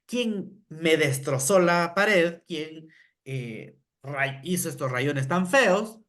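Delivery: reclamo lento y pesado de maestra molesta; regañar despacio, sin gritar; regaño fingido. Retold or imitated. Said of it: "Pero si yo digo". (maestra regaña al niño, enojo leve)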